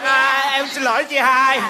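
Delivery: slow, drawn-out climb-down; sudden meek apology. Acted. Stepfather caught out by his elder sister, meek apology. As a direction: back down at once, dragging out the apology.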